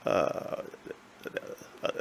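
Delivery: lightly mimicking a puzzled streamer; feigned confusion. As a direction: play dumb, asking who this is. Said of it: "he pretend to not know who they are".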